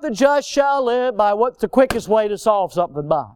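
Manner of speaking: scornful twist on the verse; mock misquote. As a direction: spell out the wrong version with scorn. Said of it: "It's not".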